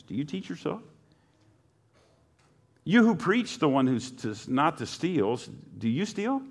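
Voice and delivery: pointed challenge, each question swinging up at the end; sarcastic. Acted. Preacher voicing Paul's challenge to religious hypocrites, sarcastic. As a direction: read it as mock questions to the self-righteous. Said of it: "You can hear the sarcasm".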